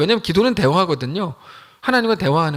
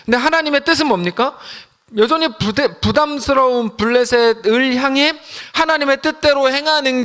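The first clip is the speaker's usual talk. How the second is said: building pastoral insistence, pitched up; rising sermon fervor; 5 semitones higher than usual. Acted. Pastor urging the congregation, rising sermon fervor. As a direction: lift the voice and preach it high. Preaching rises in force.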